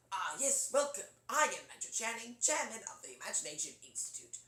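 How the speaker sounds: showy, pompous British host; Eric Idle. Shown as a demonstration. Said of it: "Sort of like Eric Idle".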